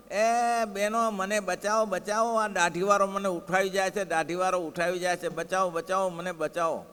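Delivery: hammed-up shouting for rescue from the women at the well; playful fake distress call; mock cry for help. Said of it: "મહારાજ રાડો પાડે".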